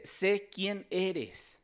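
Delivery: very slow, drawn-out mock demonic claim; lightly voiced demon, stretched out. Preacher retelling the demon naming Jesus, slow. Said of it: "Y dice".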